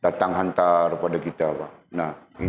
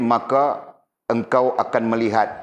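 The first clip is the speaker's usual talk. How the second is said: slow verse reading; slower than usual. Shown as a demonstration. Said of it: "ayat Walid tadi".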